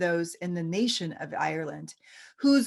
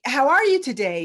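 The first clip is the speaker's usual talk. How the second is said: half-done Irish lilt, higher and louder; a cheery Irish greeting in a jokey Irish accent; mock Irish accent; 5 semitones higher, 6 dB louder than usual. Dublin locals greeting mom and dad, jokey Irish accent. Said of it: "I have to do a Lucky Charms accent".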